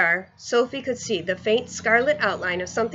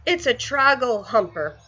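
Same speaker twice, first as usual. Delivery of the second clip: mild shout; 3 semitones higher than usual. Acted. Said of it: "he shouted".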